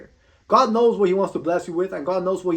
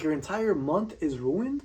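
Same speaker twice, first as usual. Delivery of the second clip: slow, softer questioning echo with rising end; incredulous echo; 2 semitones lower, 6 dB quieter, slower than usual. Retold or imitated. Speaker questioning the soccer fan's overreaction, incredulous. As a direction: repeat it back slowly in disbelief. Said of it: "I'm like".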